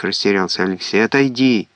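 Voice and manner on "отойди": unkindly. A narrator's reading. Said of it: "как-то недобро сказала Ася".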